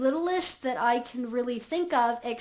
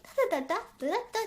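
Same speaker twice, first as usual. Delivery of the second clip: puppy voice babble; 6 semitones higher, 3 dB quieter, much faster than usual. Shown as a demonstration. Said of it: "That is my puppy voice".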